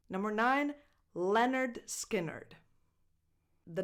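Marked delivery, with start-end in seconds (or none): 1.1-2.5 "Leonard Skinner" slowly as LEN-urd SKIN-urd; name pronunciation. Shown as a demonstration. Teacher announcing the band name, careful pronunciation. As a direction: sound out Leonard Skinner, first word like the ordinary first name Leonard. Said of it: "So it's pronounced Leonard".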